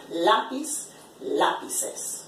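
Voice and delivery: "Lápiz, lápices" stressed on the first syllable "lá"; stress on accented syllable. Shown as a demonstration. Teacher showing where the accent mark falls, "Lápiz, lápices" stressed on "lá". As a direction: hit the "lá" that opens "Lápiz" and "lápices". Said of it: "where you're going to stress the word".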